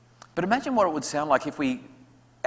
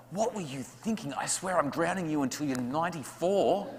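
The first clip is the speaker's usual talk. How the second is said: mock parent rant; 2 semitones higher than usual. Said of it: "we say to our child".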